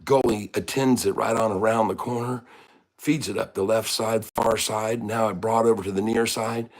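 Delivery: restrained live sports call; hockey play-by-play. Acted. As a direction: follow the puck, call each move. Calls a hockey game.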